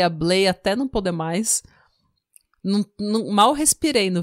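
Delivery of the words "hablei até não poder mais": words come out as a tired whisper; almost voiceless, sore from recording; worn-out voice. Real, not acted. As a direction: voice spent from talking too much. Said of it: "agora tá tudo dolorido".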